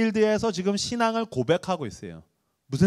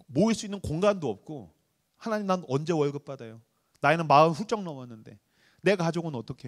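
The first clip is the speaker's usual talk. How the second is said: pleading prayer. Retold or imitated. Pastor retells desperate prayer.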